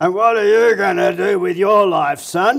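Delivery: put-on very rough elderly voice. Recalling a teenage visit to the dentist, the speaker quotes the dentist in a very rough voice. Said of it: "said to me in a very rough voice".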